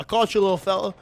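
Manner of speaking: lightly put-on Australian accent, quoting a player's one-liner; Australian accent impression. Caster quoting a player's voice line to his co-caster, mild Australian accent. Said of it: "That was a really good Australian accent".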